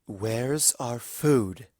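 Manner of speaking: slow, simmering threat; smoldering anger. Acted. Big sister demanding where their food went, slow and smoldering. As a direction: let each word smolder. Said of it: "Celestia's voice was smoldering, crackling".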